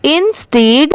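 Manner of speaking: इंस्टीड built from "in" and "steed"; teaching pronunciation. Shown as a demonstration. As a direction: join इन and स्टीड into इंस्टीड. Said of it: "दोनों मिला देंगे".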